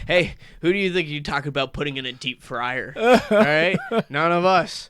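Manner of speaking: light Italian mafia voice, lightly done; mock Italian mob boss, understated; Italian mobster accent. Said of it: "I don't know why I make him sound Italian".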